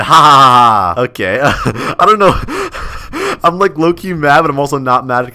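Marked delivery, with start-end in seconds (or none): 0.0-1.0 mocking laugh. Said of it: "He just said".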